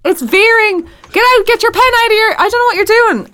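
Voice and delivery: high, hammed-up Boston accent. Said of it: "Oh, it's Boston".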